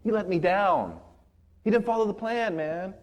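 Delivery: soft disbelief rising in pitch to complaint; disillusioned Peter. Retold or imitated. Peter regrets following Jesus for three years, disillusioned. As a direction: imitate a let-down follower, starting quietly. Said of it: "is disillusioned".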